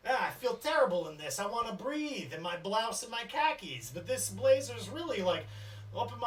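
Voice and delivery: lightly voiced fussy complaint; a hint of Ronnie whining about her outfit; Ronnie complaining. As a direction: grumble about the tight blazer. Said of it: "she pulls on the blazer she got and goes".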